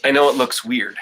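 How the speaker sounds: breathless after holding the belly; winded after the exercise; out of breath. Real, not acted. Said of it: "Yes, I'm out of breath".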